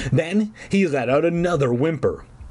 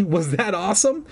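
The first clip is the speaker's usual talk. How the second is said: raised, gleeful pitch; happy yelp; 6 semitones higher than usual. A narrator's reading. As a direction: crow over a successful prank. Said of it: "I yelped happily".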